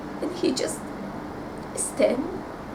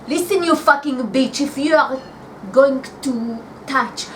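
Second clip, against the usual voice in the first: angry retold threat; dirty-talking threat. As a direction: threaten like a jealous rival. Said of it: "She talked like this, very dirty".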